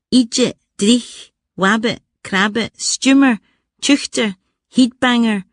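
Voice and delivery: put-on rolling out old Scots words in a lightly Scottish accent. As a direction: savour each Scots word with a hint of Glasgow. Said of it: "I lost my Scottish accent".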